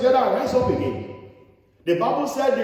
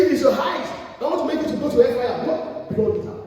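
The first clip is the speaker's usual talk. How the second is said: shouted scripture; 5 semitones higher than usual. Acted. Preacher calling out scripture.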